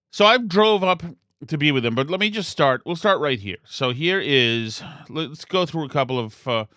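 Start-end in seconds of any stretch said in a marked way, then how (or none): 3.6-6.7 talking through a yawn; words stretched by a yawn. Real, not acted. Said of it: "sorry for my yawning".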